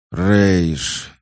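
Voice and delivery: loud angry cry of a name; angry exhale. A narrator's reading. Hawk cuts off the narrator's explanations, angry exhale. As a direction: breathe out the name in anger, falling. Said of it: "гневно выдохнула Хок".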